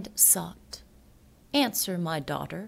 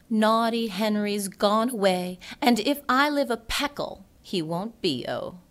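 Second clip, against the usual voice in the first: higher, louder singsong call; loud lament; 4 semitones higher, 5 dB louder than usual. Acted. Poet mourns Henry to the audience, loud and high. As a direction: cry it out to the room.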